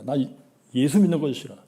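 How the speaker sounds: rising to a high, loud whine; petulant kid shouting he hates hymns; whiny teenage son. Retold or imitated. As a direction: mimic the son's loud protest. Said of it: "아주 막 이러던 놈인데".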